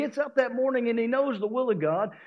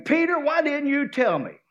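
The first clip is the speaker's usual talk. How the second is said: frustrated blaming; 2 semitones higher than usual. Pretend. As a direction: whine and blame the disciples. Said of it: "He can start blaming".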